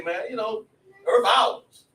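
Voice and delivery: plain-talk vernacular. Acted. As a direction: tell it like it is, punchy and informal. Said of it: "gonna tell you like it is".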